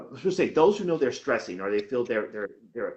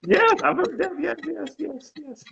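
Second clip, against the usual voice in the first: laughing agreement; 7 dB louder than usual. Real, not acted. Still laughing after the joke.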